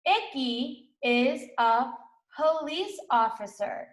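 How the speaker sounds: slow, word by word; slow reading aloud. Shown as a demonstration. Teacher reading slowly with the class. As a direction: read it slowly so children can follow. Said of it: "read that with me".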